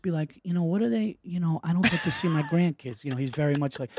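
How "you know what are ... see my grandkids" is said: softer, subdued dad talking family; lowered dad voice. Retold or imitated. Son imitates dad on missing grandkids, softly lowered voice. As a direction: drop to a hushed family confidence. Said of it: "he gets lower".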